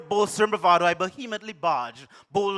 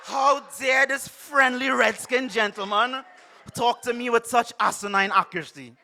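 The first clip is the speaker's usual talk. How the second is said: mock indignant shout; 4 semitones higher, 3 dB louder than usual. Poet in hammed-up shock at Kes's accuracy. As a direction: draw out the outrage.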